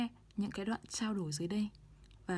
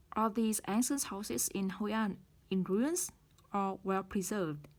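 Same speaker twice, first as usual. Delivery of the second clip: ruins rises, well preserved falls, said slowly; slow rise then fall. Shown as a demonstration. Teacher slowly models the choice question with rise then fall. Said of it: "rising intonation ... falling intonation".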